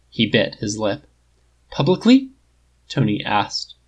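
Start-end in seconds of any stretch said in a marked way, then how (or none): 1.7-2.3 breathy hope. A narrator's reading. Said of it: "breathy and hopeful".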